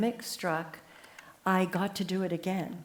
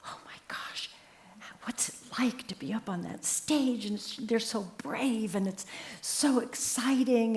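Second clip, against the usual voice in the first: hushed, awed whisper from the audience; a whisper at first, easing back toward her usual voice; childlike whisper; 2 semitones higher, 4 dB quieter than usual. Retold or imitated. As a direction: breathe it out in wonder like a starstruck kid. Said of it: "sitting there in the audience going".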